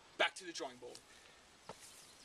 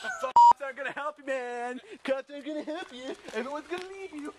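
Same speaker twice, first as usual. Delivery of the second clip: threatening rant; 7 semitones higher, 8 dB louder than usual. Acted. Menacing rant.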